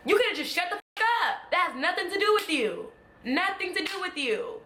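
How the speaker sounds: fed-up rant at a celebrity; exasperated telling-off. Real, not acted. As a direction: snap at him to mind his business. Angry rant at Terry Crews.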